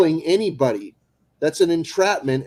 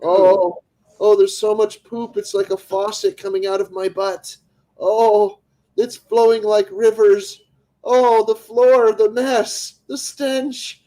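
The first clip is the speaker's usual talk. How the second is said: hammed-up rising panic; 5 semitones higher, 3 dB louder, slower than usual. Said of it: "pranking scam caller, escalating".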